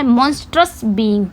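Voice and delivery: each word drawn out slowly for students to write; slow dictation. Shown as a demonstration. Teacher dictating the meaning to her class, very slow. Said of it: "इसका मतलब क्या होता है".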